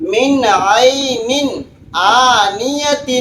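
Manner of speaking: من عین آنیت drawn out slowly, each letter sounded clearly; slow careful recitation. Shown as a demonstration. Teacher models letter articulation for students to copy, very slow. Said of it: "حرف جس طریقے سے میں نکال رہا ہوں".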